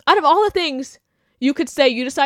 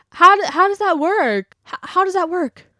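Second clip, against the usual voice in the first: higher, mock-puzzled questioning; sarcastic question; 7 semitones higher than usual. Real, not acted. Challenging people who say slurs slip out, sarcastically puzzled. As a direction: ask it with sarcastic disbelief. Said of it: "mocking a lame excuse".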